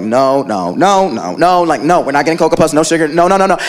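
stern mom. Retold or imitated. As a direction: shut the kid down flat. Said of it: "My mom would be like".

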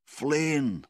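loud, high repeated call; yelling for help. A narrator's reading. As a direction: holler the name across a roaring fire. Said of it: "he yelled for the other men".

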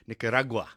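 Nicaragua as "nicka-RAH-gwa", stress on RAH; demonstrating Nicaragua the Spanish way, "RAH-gwa" ending; Spanish pronunciation. Shown as a demonstration. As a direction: say Nicaragua with an open, stressed middle "ra". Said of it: "we found a Spanish person pronouncing it".

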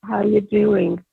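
a hint of a mellow soft-spoken man; gentle everyday greeting, lightly imitated; showing how the comic really spoke, softly; Gilbert Gottfried soft-spoken. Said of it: "you know how he speaks?".

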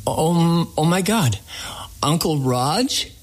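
a jolt of disbelief as it dawns on him; retold shock. Recognizing a long-lost family friend.

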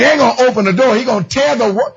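laughing, building preaching shout; joyful roof-raising sermon; excited preaching. Real, not acted. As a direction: preach it with glee. Preaching climax.

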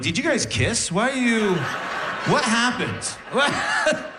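mock alarmed questioning; incredulous. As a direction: pester him in mock disbelief. Confronting drunk dad in story.

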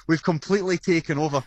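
a touch of real pride; proud. Real, not acted. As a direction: let mild pride show in the voice. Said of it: "I can hear the pride in your voice".

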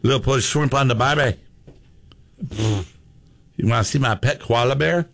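half-hearted Australian twang; Australian accent. Shown as a demonstration. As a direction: attempt a light, unconvincing Aussie accent. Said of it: "That's an Australian accent".

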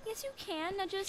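urgent whispered shoo. Acted. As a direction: hiss it under breath. Hushing Glenn before Thor arrives.

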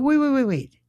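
high, rapid-fire interruption; alarmed protest. Retold or imitated. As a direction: stop them with high repeated protests. Retold protest to poll worker.

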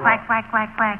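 mock duck quack; hammed-up duck imitation. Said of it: "you have to quack like a duck".

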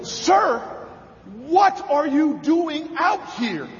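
mock yell, slow on the question; retold yell. Mayor yelling at an old man through the car window, mock yell. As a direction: call out to the old man in the storm. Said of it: "I yell at him".

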